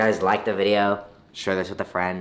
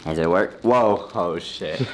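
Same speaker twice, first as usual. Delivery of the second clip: helium voice; 6 semitones lower, slower than usual. Real, not acted. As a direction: voice sped up by helium. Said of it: "How do I sound now?".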